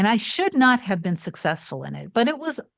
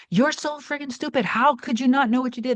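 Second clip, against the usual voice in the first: higher-pitched imitation of a furious man; mock angry owner; 5 semitones higher than usual. Angry owner scolding her over the phone, mock furious. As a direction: act out the owner's scorn, a bit overdone. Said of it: "He was so upset with me and so angry".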